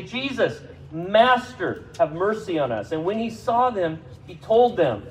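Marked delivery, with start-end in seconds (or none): 0.0-2.9 calling out for mercy. Acted. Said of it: "they raise their voices".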